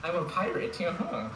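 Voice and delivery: high playful pirate voice; a cheerful high pirate greeting. Acted. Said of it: "that's his pirate voice".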